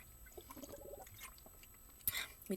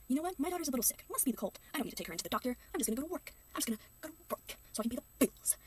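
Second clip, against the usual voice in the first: higher, breezy mock dad voice; mock careless dad; 4 semitones higher than usual. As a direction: play the dad as smugly oblivious. Mocking the neglectful father.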